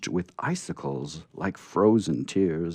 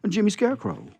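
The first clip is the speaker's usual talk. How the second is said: timid scarecrow; 3 dB louder, faster than usual. Acted. Scarecrow names himself.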